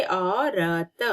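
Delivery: औरत stretched slowly; slow clear naming. Shown as a demonstration. Teacher to pupils, saying औरत slowly. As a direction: draw out औरत syllable by syllable. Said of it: "direct औ लिखेंगे".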